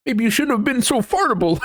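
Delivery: high voice cracking into laughter; giggling mock blame; laughing retort. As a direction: break up laughing mid-insult. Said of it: "they're like".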